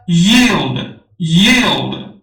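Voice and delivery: ییلد sounded "yeeld" for learners; English pronunciation demo. Shown as a demonstration. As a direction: say ییلد as "yield", y into long ee.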